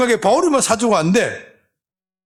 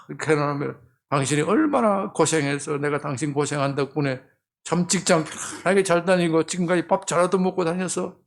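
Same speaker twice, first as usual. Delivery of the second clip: soft thanks to wife; 4 semitones lower, 5 dB quieter than usual. Retold or imitated. Husband voiced thanking wife.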